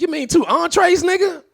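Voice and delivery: high incredulous correction; mocking correction. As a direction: correct your father in disbelief. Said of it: "I was like".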